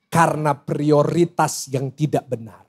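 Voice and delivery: slow, low, measured delivery; low and deliberate, word by word; dictating a key point. Real, not acted. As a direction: spell out the takeaway slowly for note-takers. Dictating key point for note-taking.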